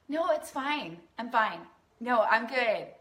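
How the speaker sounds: a hint of a woman hiding her feelings; forced fine. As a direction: paste on a cheerful smile and insist you're fine. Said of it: "as so many women are taught to do".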